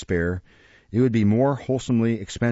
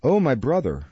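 mock tearful; 3 semitones higher than usual. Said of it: "bursting into tears".

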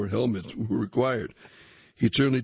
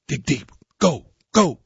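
loud coach yelling from across the rink; coach shouting; 7 semitones higher, 8 dB louder than usual. A narrator's reading. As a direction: bark it like a coach driving a tired player. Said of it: "Coach Fraser's shouts".

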